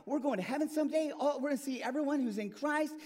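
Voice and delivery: bubbling over with eager joy; a rushed, wound-up announcement; worked up. Acted. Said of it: "why you're getting so worked up".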